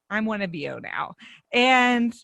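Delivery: ordinary delivery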